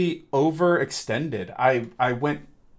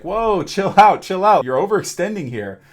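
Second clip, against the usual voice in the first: louder, higher imitated "whoa, chill out"; Pomni calming things down; 5 semitones higher, 7 dB louder than usual. Pomni telling Ragatha to calm down, louder and higher. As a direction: urge a friend to cool it, half-acted. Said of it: "And so Pomni is like".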